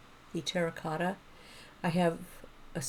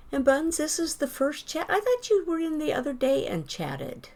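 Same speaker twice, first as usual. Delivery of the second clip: excited; 9 semitones higher, 6 dB louder than usual. Real, not acted. Streamer greeting chatter.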